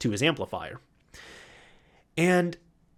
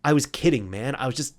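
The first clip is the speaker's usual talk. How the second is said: imitated panicked backpedal. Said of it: "Henry just kinda kernel panicked".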